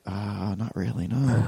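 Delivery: a quiet apologetic waiter; mock hesitant no; imitating waiter. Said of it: "He's like".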